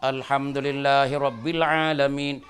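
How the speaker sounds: slow, careful Arabic recitation of alamin. Shown as a demonstration. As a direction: recite alamin with long vowels.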